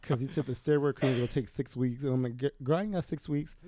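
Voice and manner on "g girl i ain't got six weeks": rising, fast exasperated complaint; exasperated outburst. Retold or imitated. Exasperated patient to doctor, fast and climbing higher. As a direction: blurt it out fast, fed up and pitching up. Retelling his protest to the doctor.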